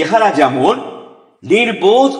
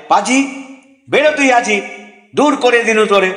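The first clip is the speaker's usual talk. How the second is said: higher, indignant scolding; angry dismissal; 4 semitones higher, faster than usual. Acted. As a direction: throw the servant out in mock fury. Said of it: "শুনে মহা রেগে". (রেগে তাড়িয়ে দেওয়া)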